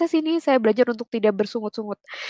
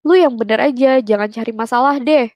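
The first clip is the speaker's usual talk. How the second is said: imitating the brother's louder warning; a retold annoyed telling-off, louder; mock angry scolding; 3 dB louder than usual. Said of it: "dia sempet marah". (menirukan omelan adik yang kesal)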